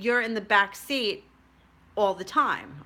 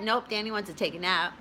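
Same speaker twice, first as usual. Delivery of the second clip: laughing through it; 3 dB quieter than usual. Retold or imitated. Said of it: "I would think to myself".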